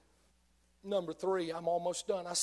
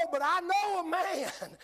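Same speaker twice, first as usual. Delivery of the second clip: excited lift; 11 semitones higher, slower than usual. Real, not acted. Preacher's sudden lift.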